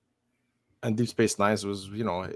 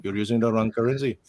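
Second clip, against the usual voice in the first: put-on Indian accent. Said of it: "but back in India".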